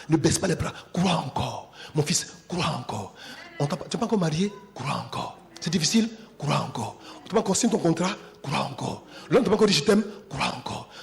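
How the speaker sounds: hushed crois encore after each question; preaching refrain. Acted. Preacher's call-and-response refrain.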